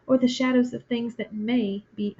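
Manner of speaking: "may" leaned on as the key word; stress on may. Acted. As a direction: weigh the word "may" against "will be". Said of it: "notice the emphasis of the word may".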